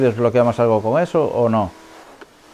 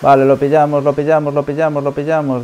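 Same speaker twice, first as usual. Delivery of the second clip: excited; 4 semitones higher, 3 dB louder than usual. Real, not acted. Catching the rival in a race.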